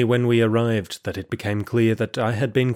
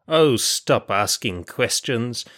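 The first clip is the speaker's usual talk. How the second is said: impatient threat. Acted. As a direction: spell it out like a guard at the end of his patience. Guard loses patience, threatens.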